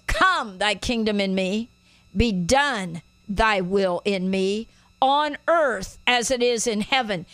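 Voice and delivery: strong stress on "Come", "done" and "earth"; declared prayer. Shown as a demonstration. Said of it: "we all said it like this".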